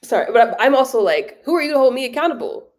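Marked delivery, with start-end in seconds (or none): 1.4-2.7 higher-pitched indignant challenge; defiant retort. Retold or imitated. Acts out defiant retort to critics.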